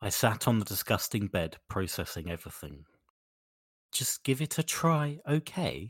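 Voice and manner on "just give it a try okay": slow, high, puzzled and unsure. Reading a story line aloud to another speaker: confused. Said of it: "You sound so confused by what you're reading there".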